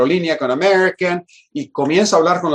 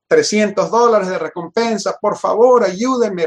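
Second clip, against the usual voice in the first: higher-pitched, pleading retelling; retold begging; 5 semitones higher than usual. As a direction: act out begging for help, no real tears. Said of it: "rogándoles, casi llorando".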